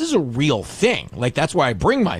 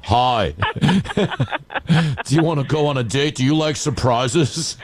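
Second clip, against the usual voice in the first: put-on girl voice; 2 semitones higher than usual. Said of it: "he sounds like a Democratic girl named Beth".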